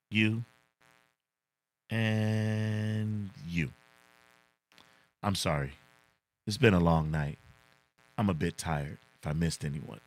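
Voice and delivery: lightly voiced movie hero, slow and deliberate at first; a hint of a cool martial-arts star, pausing before each you; movie line impression. Streamer doing his best impersonation for chat, lightly voiced cool hero. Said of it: "I'm gonna do my best impersonation".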